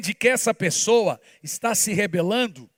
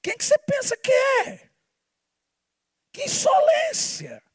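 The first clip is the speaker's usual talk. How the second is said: outraged rebuke. Acted. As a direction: scream the indignation. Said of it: "É tipo assim". (indignado, gritando bem agudo)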